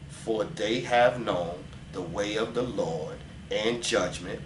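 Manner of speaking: slow, low, soft scripture reading. Acted. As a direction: read the verse slowly and hushed, like in church. Reads Jeremiah aloud.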